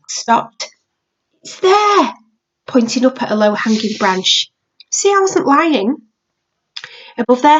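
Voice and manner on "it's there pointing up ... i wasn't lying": put-on triumphant little boy. Max proving he told truth.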